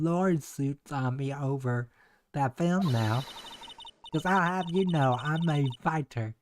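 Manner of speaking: lightly voiced southern gal, feisty; a Southern lady bristling at strangers; folksy country woman. Country woman warning off the investigators, feisty Southern accent. Game character voiced by streamer.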